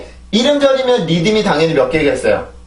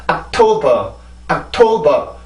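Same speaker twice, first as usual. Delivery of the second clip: 옥토버 with the last syllable dropped dead; dropping final syllable; much slower than usual. Shown as a demonstration. Teacher shows students' mistake with a falling ending. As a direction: let 옥토버 fall off at the end. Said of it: "이렇게 뚝 떨어지면".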